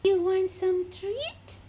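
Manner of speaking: slow, drawn-out excited lilt; excited treat offer. Real, not acted. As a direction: tease them with treats, stretched out.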